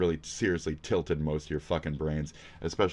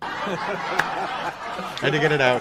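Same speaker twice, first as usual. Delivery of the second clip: laughing; 10 semitones higher, 5 dB louder, much slower than usual. Real, not acted. Laughing after the bit.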